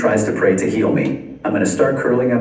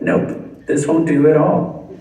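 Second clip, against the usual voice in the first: mock doctor; 6 semitones higher, slower than usual. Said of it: "they're like".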